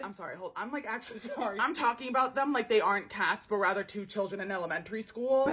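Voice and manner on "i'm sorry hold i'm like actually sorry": laughing apology. Real, not acted.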